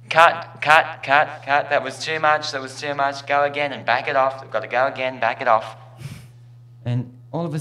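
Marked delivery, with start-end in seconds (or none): 0.1-5.7 megaphone. Acted. Director with megaphone stops the scene, loud. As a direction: call cut through a megaphone. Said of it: "The man with the megaphone says".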